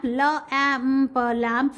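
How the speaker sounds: la, amp split, then lamp; sounding out. Shown as a demonstration. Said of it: "we cannot hear the g sound".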